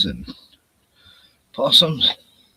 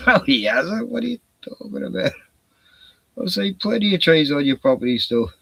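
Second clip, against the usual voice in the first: retold protest, pitched much higher and quick; mock protest; 5 semitones higher than usual. Retelling to Joe what he told Gordon, mock protest. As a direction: replay the comeback as a bit of a playful outburst.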